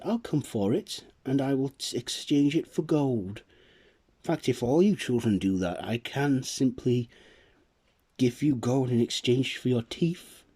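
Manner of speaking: a light kindly fairy. Acted. The fairy promising gold to the village children, kindly.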